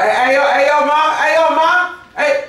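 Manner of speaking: catcall the women in a hammed-up New York accent. Host imitates New York guys calling to women, high New York catcall. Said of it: "shout out the honeys and shit".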